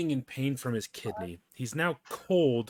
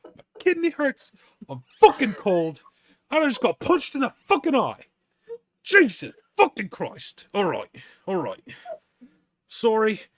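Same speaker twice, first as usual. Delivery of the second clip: pained yelling; 10 semitones higher, 9 dB louder than usual. Retold or imitated. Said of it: "He's like".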